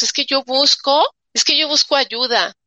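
un poco más aguda, queja nerviosa; ansiedad imitada. Retold or imitated. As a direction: imita a quien busca ayuda con angustia. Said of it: "estás buscando con ansiedad". (leve imitación ansiosa)

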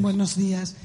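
hoarse, strained voice; talking through a hoarse throat. Real, not acted. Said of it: "es que yo estoy ronca".

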